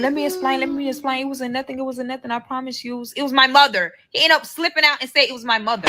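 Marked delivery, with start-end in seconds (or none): 0.0-3.9 higher, insistent retold pleading; pleading explanation. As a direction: imitate someone rushing to explain himself. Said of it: "he was trying to explain".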